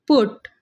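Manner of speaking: put, vowel cut short for contrast. Shown as a demonstration. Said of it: "ऊ का sound difference आ रहा है".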